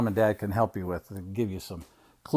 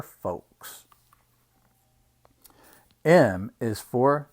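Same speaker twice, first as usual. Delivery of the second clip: measured picture-book reading; reading to children; 3 semitones higher, slower than usual. Acted. Uncle reading an alphabet book to children, storytime reading. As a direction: read it out slowly for little listeners.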